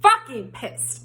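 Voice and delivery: angry. Retold or imitated. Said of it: "That is putting it lightly".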